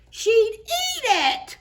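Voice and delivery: slow, high giggling reveal; laughing punchline. Acted. Reader reveals the teacher eats books, laughing. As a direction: let the giggle spill into the line.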